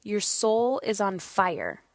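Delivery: slow, tender, proud mother; tender praise. Retold or imitated. Mother telling her son his soul is on fire, tenderly. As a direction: savour each word as you praise your son. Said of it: "I just look at him and I was like".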